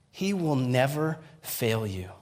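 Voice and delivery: slow, weighted NEVER, then a pause; measured, emphatic restatement; slow, deliberate repeat. Real, not acted. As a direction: let "He will never fail you" land slowly. Repeats the words to live by.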